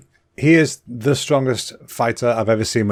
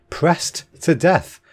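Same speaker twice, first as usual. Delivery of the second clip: slow, higher, baffled repeat; incredulous; 4 semitones higher, much slower than usual. Real, not acted. Podcaster reacting to witch trial fact, incredulous. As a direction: draw out each word in disbelief.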